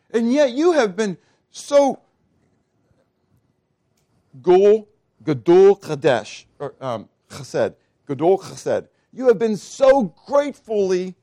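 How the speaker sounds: high, fervent, breathless wonder; overwhelmed awe. Acted. Solomon overwhelmed, praising God, in high awed wonder. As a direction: pour it out in amazed gratitude.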